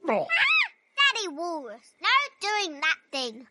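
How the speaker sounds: slow, drawn-out scolding; a hint of a strict manners teacher; stern teacher scolding. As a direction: drag the name out like a strict teacher. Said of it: "You animals need to learn some manners".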